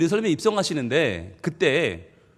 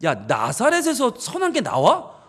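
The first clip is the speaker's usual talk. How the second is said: mocking sneer; 3 semitones higher, slower than usual. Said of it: "라는 말을 들을 정도로".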